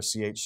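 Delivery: ch as the soft sound in chair; letter sound. Shown as a demonstration. Teacher showing other C H words, ch as in chair. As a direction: make just the ch sound, as in chair. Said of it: "where it's a ch".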